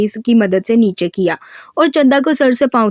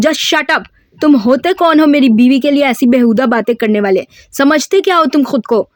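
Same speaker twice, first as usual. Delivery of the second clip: higher, mock-furious outburst; husband defending his wife, raised angry voice; angry shout; 4 semitones higher than usual. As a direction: snap back at the insult. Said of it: "مشارف کے چلانے پر".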